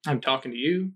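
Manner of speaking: put-on understated stranger with a light Mediterranean accent; slight Mediterranean accent. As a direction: answer with a hint of Mediterranean accent. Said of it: "Mediterranean accent".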